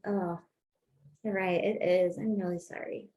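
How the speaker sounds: soft, calm agreement. Shown as a demonstration. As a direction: calmly own it, no fight. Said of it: "There's, like, no fight".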